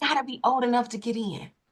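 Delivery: hushed, whispered voice. Repeating a co-host's remark while recording, whispering. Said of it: "Why you whispering?".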